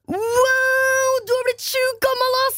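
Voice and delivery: high, put-on teenage boy voice, amazed; mocking teen boy. The speaker imitating the boy in the lift, high amazed teen voice. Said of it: "hans respons der".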